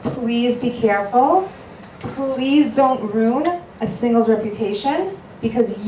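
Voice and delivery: slow, pleading emphasis on please; slow down and beg them to take care; earnest plea. Real, not acted. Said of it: "I cannot stress this one enough".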